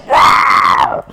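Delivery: loud breathy mock roar; lion roar. The lion roaring at Hercules, loud mock roar. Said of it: "冲着赫拉克勒斯一声咆哮".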